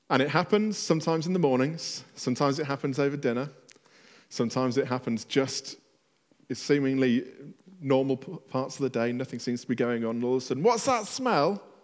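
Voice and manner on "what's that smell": put-on small, high-pitched toddler voice. Retelling what is heard at home: little voice imitating Archie. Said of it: "As my son Archie realises he smelt something".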